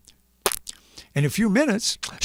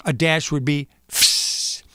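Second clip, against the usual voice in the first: punctuation sound effect; slower than usual. Shown as a demonstration. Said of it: "sound like this".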